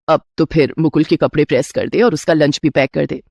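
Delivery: a doting mother-in-law offering a gift. Acted.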